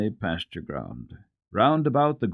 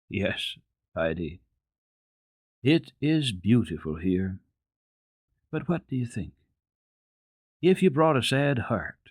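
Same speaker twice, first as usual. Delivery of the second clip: thoughtful doctor. A narrator's reading. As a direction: ask gently, heavy-hearted, taking your time. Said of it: "wrapped in thought".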